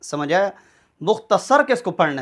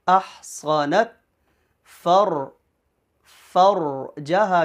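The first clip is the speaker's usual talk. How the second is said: slow, measured Quran recitation; careful teaching recital, syllables drawn out; verse recitation; much slower than usual. Shown as a demonstration. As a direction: recite with long held vowels. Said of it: "یہ پوری آیت میں پڑھتا ہوں".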